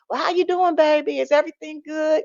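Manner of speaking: a hint of a doting grandmother asking after you; grandmother's voice. Grandmother sweetly checking on her grandchild, high and gentle. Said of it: "And she would ask me".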